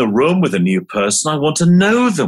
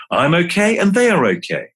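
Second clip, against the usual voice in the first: higher, lifted affirmation; bright affirmation; 4 semitones higher than usual. Shown as a demonstration. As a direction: say it up, as if convincing yourself. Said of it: "here's a mantra or two".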